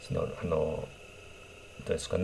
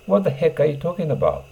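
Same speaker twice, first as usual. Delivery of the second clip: annoyed; 7 semitones higher than usual. Shown as a demonstration. Teacher acts out an irritated speaker, raising the pitch. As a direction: snap it out in irritation. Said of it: "The heckを挿入します".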